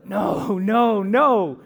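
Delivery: loud, rising string of mock protests; high, loud acted objection; emphatic correction. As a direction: cut them off, each no bigger. Correcting the audience he quoted.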